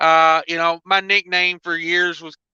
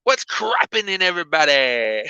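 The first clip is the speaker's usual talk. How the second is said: B O C impression. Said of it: "That's my B O C impression".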